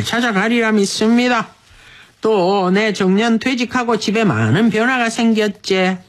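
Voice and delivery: unhurried, performed Busan-dialect letter reading. Acted. Radio host reads husband's letter for wife's sixtieth, Busan dialect.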